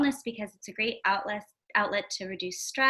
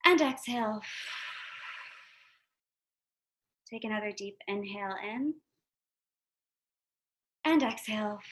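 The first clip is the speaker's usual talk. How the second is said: guided meditation. Acted. Meditation leader guiding podcast listeners through a body scan, guided meditation. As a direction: lead listeners calmly through breath and body, unhurried.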